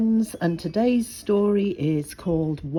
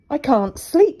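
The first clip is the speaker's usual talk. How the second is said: put-on child voice; 10 semitones higher, 6 dB louder than usual. Little boy voiced in story.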